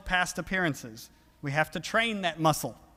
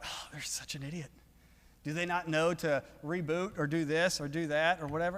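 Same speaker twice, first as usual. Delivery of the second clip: mocking annoyed coworker; 4 dB quieter than usual. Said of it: "the other I T people would be like".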